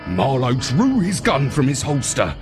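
ordinary delivery, nothing marked

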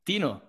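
"Dino" as DEE-no, softly on request; obliging "Dino"; requested name pronunciation. Shown as a demonstration. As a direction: say "Dino" neatly on cue, DEE-no. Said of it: "Just say Dino".

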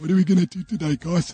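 mock American accent. Joking about American accents, mock American accent. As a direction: chirp it like an American vlogger.

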